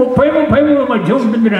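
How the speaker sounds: put-on very high old man's voice; old man answering. Old man claims he's thirty, in a high voice. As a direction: pipe it up like a frail old man. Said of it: "అన్నాడు".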